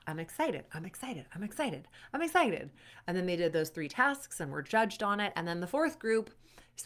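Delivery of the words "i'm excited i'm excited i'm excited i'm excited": excited mantra. Acted. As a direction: repeat it, lifting on the last one. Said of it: "they were supposed to think".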